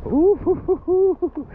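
high, loud stoked whooping; excited whoop. Real, not acted. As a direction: whoop with joy after surfing. Stoked after best waves.

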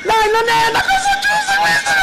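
high, loud frightened shout; panicked protest. Real, not acted. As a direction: cry out that it isn't fair, scared stiff. Mother terrified, protesting to son. (protesta urlando spaventata al figlio)

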